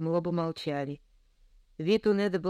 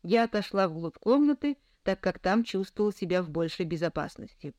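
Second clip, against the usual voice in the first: ordinary delivery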